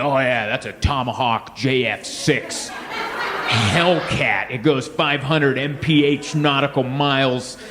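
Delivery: slow, deadpan expert rattling off specs; nerdy know-it-all. Retold or imitated. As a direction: recite the fake specs like a gun nut. Know-it-all military nerd quote.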